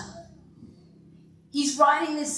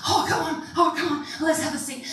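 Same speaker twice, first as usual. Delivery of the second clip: eager greeting; 5 semitones higher, faster than usual. Acted. Acting eager churchgoer.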